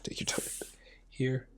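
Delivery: whispered self-talk while drawing; muttering to myself. Real, not acted. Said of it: "Talking to myself".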